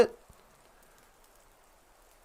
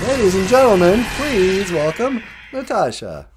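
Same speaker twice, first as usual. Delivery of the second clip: lower, projected show intro; announcer introduction; 8 semitones lower than usual. Pretend. Welcoming Natasha on stage, low mock announcer voice. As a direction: announce the guest to a crowd.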